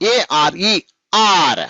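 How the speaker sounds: ఏఆర్ఈ run together as one unit; joined letters. Shown as a demonstration. Teacher modelling for pupils how to say it, ఏఆర్ఈ joined without breaks. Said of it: "చెప్పేటప్పుడు ఎలా చెప్పాలి".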